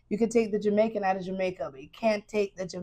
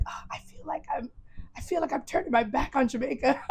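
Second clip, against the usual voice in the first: higher-pitched imitation of a mother lamenting; mom's lament; 5 semitones higher, 4 dB quieter than usual. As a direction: voice mom's guilt lightly, in a raised pitch. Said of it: "she was like".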